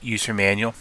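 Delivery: halting, repeating words; stuttering. Real, not acted. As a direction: stumble over the words. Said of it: "I'm stuttering here".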